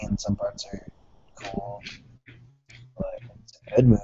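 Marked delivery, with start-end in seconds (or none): 3.0-4.0 squeaky voice. Pretend. Silly high voice repeat.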